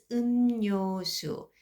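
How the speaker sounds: 음료수 said with n for l, umnyosu; 음료수 said as umnyosu, the l sounded as n; pronounced as umnyosu. Shown as a demonstration. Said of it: "I'm going to pronounce as".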